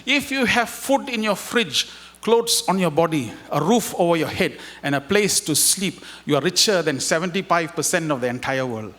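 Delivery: measured, slow recitation of a message; slow reading aloud. Shown as a demonstration. Reading the message aloud to the audience, slow and deliberate. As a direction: read each line slowly and with weight. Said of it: "allow me to read for you".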